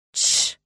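sharp loud shush; shushing hiss. Acted. Mother hushing the noisy children, shushing hiss. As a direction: hiss for silence. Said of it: "зашипела Иветта".

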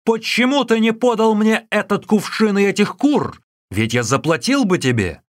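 starving monk yelling at the innkeeper; furious shout. Acted. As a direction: spit the insult and roar the question. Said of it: "кричал".

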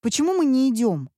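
put-on whining boy. A narrator's reading. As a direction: whine like a bored child. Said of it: "возмущался мальчик". (мальчик капризно возмущается)

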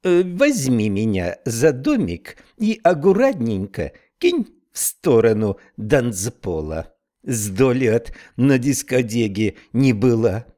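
slow, eager Irish brogue; cheerful Irish snail voice; Irish accent. Acted. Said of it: "с сильным ирландским акцентом".

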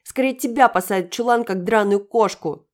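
высокий, очень громкий крик, конец медленно; выплюнь угрозу, растягивая концовку; злобный визг. Acted. Юля продолжает орать на Дашу. (злобный визгливый крик)

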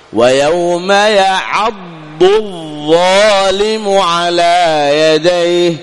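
very slow ويوم يعض الظالم, ض and ظ apart; careful recitation. Shown as a demonstration. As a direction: recite slowly, letter by letter. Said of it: "تنطق الضاد ثم الظاء".

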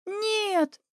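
anguished cry. A narrator's reading. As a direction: cry out in despair. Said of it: "снова крикнула я".

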